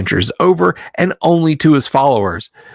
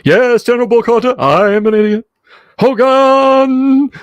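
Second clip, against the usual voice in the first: blustering German officer; 11 semitones higher, 4 dB louder than usual. Retold or imitated. Mock Hogan's Heroes officer.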